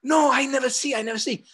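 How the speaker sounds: high, insistent Korean-accent imitation. Curator denying she has seen the document, Korean accent. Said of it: "in her Korean accent".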